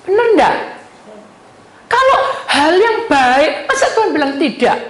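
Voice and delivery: loud, high preaching challenge; emphatic challenge. Real, not acted. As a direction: throw the question forcefully at the congregation. (seruan khotbah lantang, nada tinggi)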